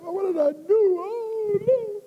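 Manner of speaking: high-pitched childish wail, hammed up; mock crying. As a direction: whimper in a put-on high voice, dreading punishment. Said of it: "Start crying before I get there".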